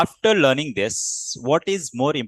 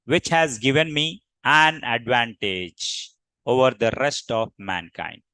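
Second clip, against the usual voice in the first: lowered tone; 3 semitones lower than usual. Shown as a demonstration. Teacher showing students a lowered tone. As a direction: let the voice sink on "mankind". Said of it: "you need to lower your tone".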